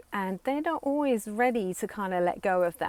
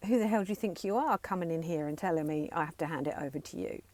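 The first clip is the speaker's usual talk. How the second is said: mock indignant child; faster than usual. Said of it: "the child saying to the parent".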